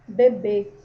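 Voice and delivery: "Bebê" with a narrow, muffled ê; half close the mouth on "Bebê"; closed, muffled vowel. Shown as a demonstration. Teacher shows how circumflex muffles sound, closed "Bebê". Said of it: "O som, ele dá uma abafada".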